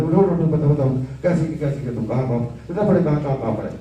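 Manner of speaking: a hint of an elderly guru quizzing his class; Baba Karanth's voice. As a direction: hurry the students along in a mild teacher impression. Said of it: "बाबा कारंथ जी की आवाज तो याद है?".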